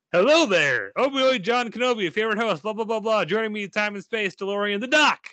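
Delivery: high, bright showman patter, pitched well up; hammed-up host intro. Host opening the podcast for his co-host, hammed-up and high. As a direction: sell the show like a game-show host.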